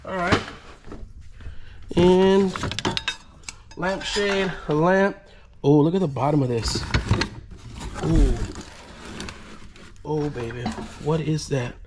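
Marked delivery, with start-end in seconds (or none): none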